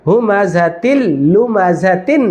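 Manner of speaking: "তিল লুমা" recited joined, without lingering; no nasal hold. Shown as a demonstration. Teacher repeats the correct merge, "তিল লুমা" without a held l. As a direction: pass from "তিল" into "লুমা" with no hum. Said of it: "কোনো গুন্না টান হবে না".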